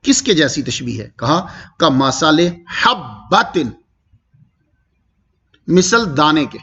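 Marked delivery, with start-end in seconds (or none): 1.8-3.6 very slow, drawn-out chant of کمثل حبۃ; recited, not spoken; Quranic recitation. Shown as a demonstration. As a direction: stretch حبۃ out as in tilawat. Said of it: "جب میں اس کو تلاوت میں پڑھوں گا".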